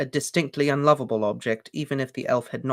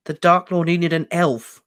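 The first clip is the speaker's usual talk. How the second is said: puzzled; 5 semitones higher, 5 dB louder than usual. Acted. Harry repeats, puzzled.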